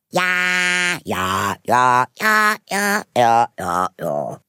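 crowd shouting yes. Acted. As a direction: call out as a whole excited crowd. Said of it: "riefen alle". (viele Stimmen rufen durcheinander)

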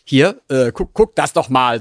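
imitating father. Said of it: "mein Vater zog mich so zu sich und sagte".

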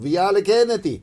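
put-on loud Italian accent. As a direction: read the address in Italian. Reading Italian address.

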